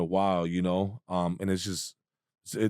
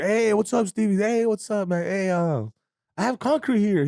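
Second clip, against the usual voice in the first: imitating Bobby on the phone; 10 semitones higher than usual. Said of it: "He puts him on speaker".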